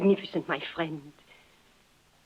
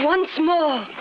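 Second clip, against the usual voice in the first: higher, louder push to go again; urgent urging; 9 semitones higher, 4 dB louder than usual. Acted. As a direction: drive him on one more time. Urging another blow on door.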